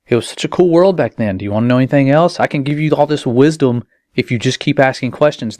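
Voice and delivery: a hint of a sweet-talking tempter; mock enticing demon. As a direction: lightly ham up a sly demon luring a child with wisdom. Mocking the demon's enticing pitch.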